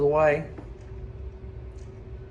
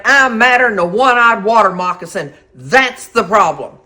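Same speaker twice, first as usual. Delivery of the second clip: angry; 2 semitones higher, 7 dB louder than usual. Retold or imitated. Telling husband she's mad.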